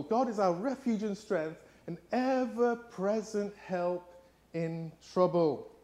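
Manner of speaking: slow thoughtful rereading. Acted. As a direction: let the verse sink in slowly. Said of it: "repeats the verse".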